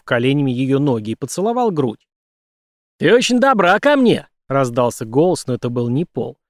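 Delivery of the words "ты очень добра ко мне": high, loud leering nightmare voice; leering Melvin. Acted. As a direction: sneer it high and loud like a creep.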